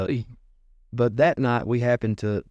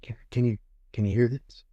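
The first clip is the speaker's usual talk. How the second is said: whisper. Shown as a demonstration. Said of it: "and then".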